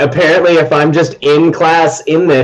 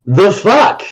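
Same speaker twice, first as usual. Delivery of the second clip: a slightly higher baffled retort; Logan's voice; 7 semitones higher than usual. Acted. As Logan, a lightly voiced baffled retort. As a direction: toss it off, lightly surprised. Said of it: "I change into Logan".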